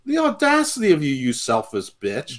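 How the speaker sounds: high-pitched mock wrestler outrage; Jay. Fan playing wrestler scolding his brother, mock outrage. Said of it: "And, and Jay's like".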